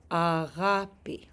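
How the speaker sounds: "Agape" stressed on the GA; slow Greek "Agape", leaning on its second syllable; stress on middle syllable. Shown as a demonstration. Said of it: "show us where to put the stress".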